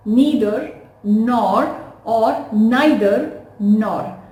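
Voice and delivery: "Neither" first with a long ee, then with an eye sound; two pronunciations. Shown as a demonstration. Teacher shows students both "Neither" sounds. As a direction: says both variants of "Neither" side by side. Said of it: "both of them are correct".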